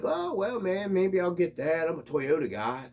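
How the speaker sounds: high, eager mock voice; mocking an eager buyer. Mocking a Toyota fan who buys, high and eager. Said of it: "you're like".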